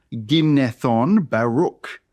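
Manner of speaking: "Ginnethon" and "Baruch" spaced out by syllable. Shown as a demonstration. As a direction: slowly model each syllable of "Ginnethon" and "Baruch". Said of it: "the names as one syllable at a time".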